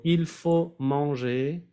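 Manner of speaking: example phrase. Shown as a demonstration. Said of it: "por ejemplo".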